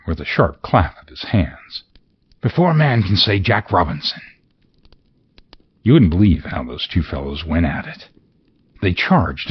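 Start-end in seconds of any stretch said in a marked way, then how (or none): 2.4-4.2 jolly call. Acted. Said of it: "cried Fezziwig".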